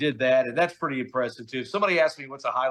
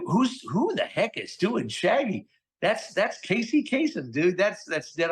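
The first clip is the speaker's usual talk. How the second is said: high, slow mock disbelief; imitating a stunned producer, up high; disbelieving producer; 7 semitones higher than usual. Studio producer can't believe who is voicing Shaggy, high mock disbelief.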